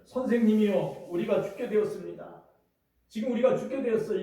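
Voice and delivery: loud, urgent plea to the teacher; frightened disciples shouting over the storm; panicked cry for help. Retold or imitated. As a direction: cry out as if the boat is sinking.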